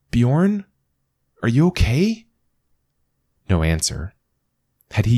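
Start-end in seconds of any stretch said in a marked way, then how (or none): 0.1-2.3 anxious call. Acted. Calling down into the crack.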